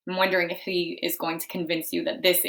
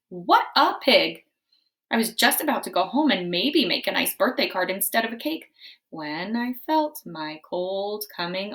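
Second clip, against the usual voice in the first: wolf narrator; 4 semitones higher, 5 dB louder than usual. Acted. Wolf narrates his story.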